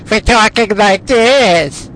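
high, loud, strained freak-out voice; ridiculous high-pitched mock yell; mock neighbor voice. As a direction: snap into a high, cartoonish holler. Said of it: "doesn't talk like that".

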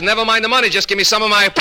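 high, exasperated, halting speech; caught stutter. Acted. Doctor demands his pills back from patient, stuttering. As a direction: stammer toward the punchline, catching before key words. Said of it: "talking like this".

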